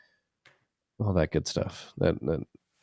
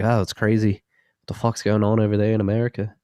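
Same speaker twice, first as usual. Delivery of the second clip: mock Australian-Canadian-English accent; lightly blended foreign accents; mixed foreign accents; 3 semitones higher than usual. Mocking foreigners in a mixed Australian-Canadian-English accent. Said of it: "all accents there".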